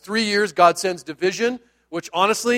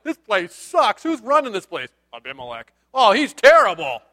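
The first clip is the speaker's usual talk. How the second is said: griping townspeople. Acted. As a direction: play disgruntled locals trash-talking. Townspeople voiced complaining about their ruler.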